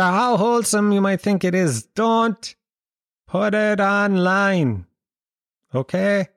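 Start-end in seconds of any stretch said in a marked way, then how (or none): 1.8-4.9 DON'T pitched up high, then put it online slowly; stress on don't. Real, not acted. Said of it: "stressed warning to audience".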